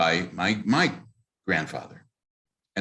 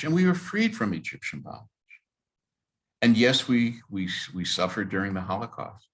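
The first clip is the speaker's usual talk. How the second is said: addressing God; 4 semitones higher than usual. Retold or imitated. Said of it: "I said to God".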